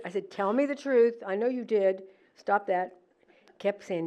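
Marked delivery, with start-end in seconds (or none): 0.3-3.0 retold angry demand. Scolding the son she thinks hid the swan, angry. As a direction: stop the joke now. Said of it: "I was really getting angry".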